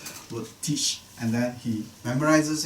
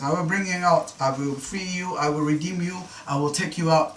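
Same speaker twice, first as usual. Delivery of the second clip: raised, running list of repeated promises; same tune on each promise, moving straight on; repetitive listing; 4 semitones higher than usual. Acted. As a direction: reel off the promises in a lifted voice. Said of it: "He's saying the same thing many times".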